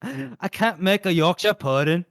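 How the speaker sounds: hammed-up mock Yorkshire; Yorkshire accent. Host teasing his British co-host, mock Yorkshire accent. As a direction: badly imitate a baking-show Yorkshire accent. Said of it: "got that from the Great British Baking Show".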